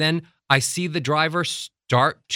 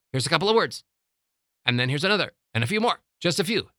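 short bursts with gaps between; little bursts; 3 semitones higher, much faster than usual. Shown as a demonstration. Coach showing breath-holding speech, little bursts. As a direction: speak in small separate puffs of words. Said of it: "people end up talking like this".

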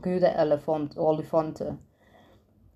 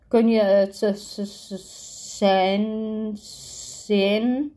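stuttering; 3 semitones higher, much slower than usual. A narrator's reading. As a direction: stutter on the z, then push the word out. Acted stutter on a drawn-out z. (stotteren op de z)

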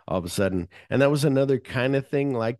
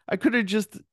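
exasperated rant; 10 semitones higher, 3 dB louder than usual. Retold or imitated. Ordell yelling at Lewis.

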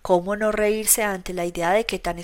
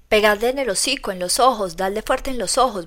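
bellowing. Acted. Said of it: "vocifera mi Colca".

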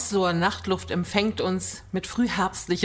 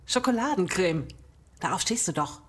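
tipsy enthusiasm; 3 semitones higher than usual. Acted. Drunk friend enthusing about cake.

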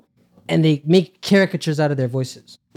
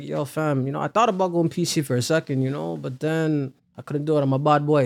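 softer laid-back Toronto voice, back of the mouth; laid-back Money; 2 semitones lower, 5 dB quieter than usual. Retold or imitated. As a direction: keep it in the back, relaxed. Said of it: "it's, like, laid back".

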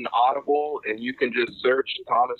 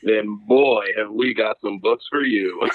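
ad read. Acted. Mock commercial break on podcast.

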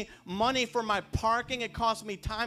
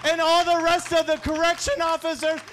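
louder and higher preacher's climax; full-force preaching; 6 semitones higher, 6 dB louder than usual. Acted. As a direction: drive it home like a revival.

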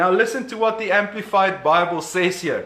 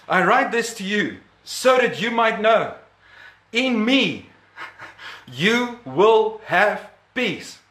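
gentle true reading. Shown as a demonstration. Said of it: "But if you read verse thirty-three".

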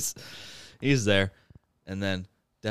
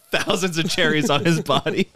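higher voice breaking into laughter; laughing while talking; 7 semitones higher, 3 dB louder than usual. Real, not acted. Teller cracks up describing the cherry outfit, laughing. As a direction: tell it through real laughter.

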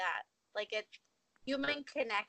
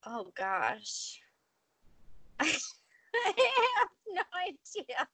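high, slow, laughing admission; amused and stumped, pitch raised; 8 semitones higher, much slower than usual. Real, not acted. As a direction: laugh helplessly through it. Laughing, put on the spot.

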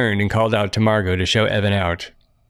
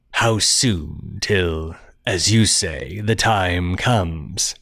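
low looming threat; 3 semitones lower, much slower than usual. Acted. Stranger slowly pressing.

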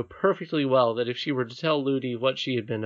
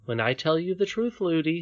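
put-on higher child's voice without anger; composed princess; 5 semitones higher than usual. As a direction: reason calmly with the nurse. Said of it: "did not feel at all angry".

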